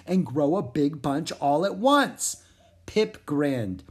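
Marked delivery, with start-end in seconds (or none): 0.1-2.4 a frog sharing a secret plan. Acted. Pip telling Zoe the plan, half whispered.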